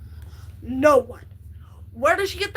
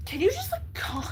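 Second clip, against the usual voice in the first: high-pitched mock plea to calm down; mock exasperated plea; 10 semitones higher, 5 dB quieter than usual. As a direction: squeak it out like a fed-up sister. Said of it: "and I was like".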